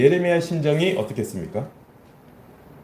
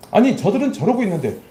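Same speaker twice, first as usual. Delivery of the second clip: mildly raised, higher-pitched remonstrance; protesting; 4 semitones higher than usual. Acted. Preacher voicing Jeremiah's appeal to God, protesting. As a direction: argue it as a pointed complaint. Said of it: "지금 이렇게 따지면".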